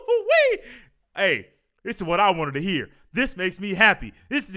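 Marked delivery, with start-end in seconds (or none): 0.1-0.6 high joyful squeal through a laugh; laughing high wee of pure glee; gleeful wee. Real, not acted. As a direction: squeal with real delight. Joy that football is back.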